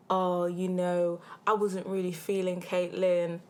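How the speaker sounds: slow, drawn-out mock smooth talker; mocking gassing quote.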